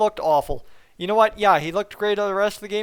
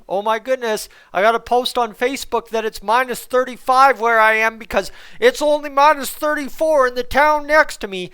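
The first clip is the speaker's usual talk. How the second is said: mock amazement; 2 semitones higher, 5 dB louder than usual. Mocks weekend Facebook weather posts.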